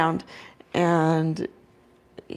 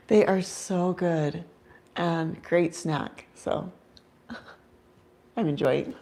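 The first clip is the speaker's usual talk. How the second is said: talking while chewing; words through a mouthful; mouth full; 6 dB quieter, slower than usual. Real, not acted. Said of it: "Excuse my chewing noises".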